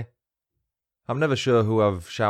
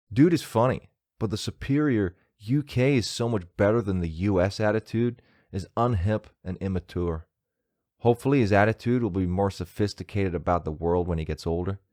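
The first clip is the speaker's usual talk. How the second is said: put-on American accent. British host reading out a bad review, mock American accent. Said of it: "I'm gonna read this in an American accent".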